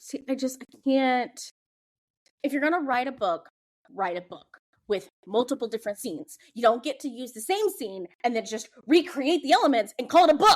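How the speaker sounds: heated, worked-up ranting delivery. Talking books with another speaker, getting into heated ranting. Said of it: "Sorry, I'm getting heated".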